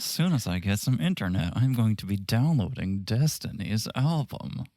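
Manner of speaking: lightly put-on, subdued parody voice; Sandy impression. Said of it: "that's exactly how Sandy sounds".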